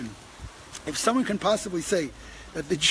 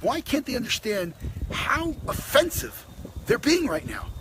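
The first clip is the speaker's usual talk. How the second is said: exasperated inner thought; 6 semitones higher than usual. Retold or imitated. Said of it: "And I'm thinking".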